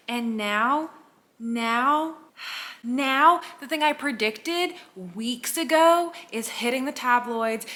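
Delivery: loud, high, thrilled announcement. Real, not acted. Fan breaking news she predicted weeks ago, thrilled. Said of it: "I am thrilled. I am exhilarated".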